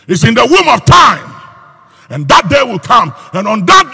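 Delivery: loud proclaiming line; preaching. Real, not acted. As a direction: boom it out like a prophecy. Preacher building to climax.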